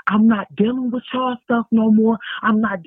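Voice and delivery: retold yelling. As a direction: go off on them, half-hearted re-enacted. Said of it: "I was just going off screaming".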